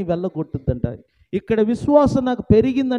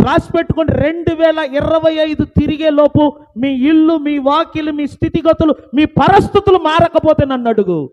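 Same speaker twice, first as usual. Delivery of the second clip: loud, raised pulpit declaration; fiery preaching; 6 semitones higher, 6 dB louder than usual. Acted. Pastor promising change to his listeners, fiery preaching. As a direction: hammer the promise home to the congregation.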